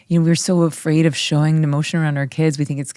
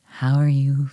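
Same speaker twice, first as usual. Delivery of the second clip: sweet Scott voice; 2 semitones lower than usual. Retold or imitated. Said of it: "in his sweet little Scott way".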